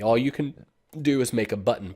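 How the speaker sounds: talking through hiccups. Real, not acted. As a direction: hiccup breaks the line. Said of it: "Pardon me, I got the hiccups".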